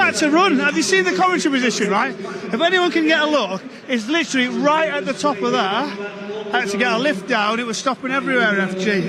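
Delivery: breathless and hurried after running; out of breath. Real, not acted. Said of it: "You're a bit out of breath".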